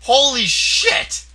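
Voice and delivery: drawn out stunned yell; slow shocked yell. Real, not acted. After huge hit.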